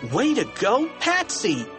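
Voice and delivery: high-pitched congratulatory cheer. A narrator's reading. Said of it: "Harold cheered".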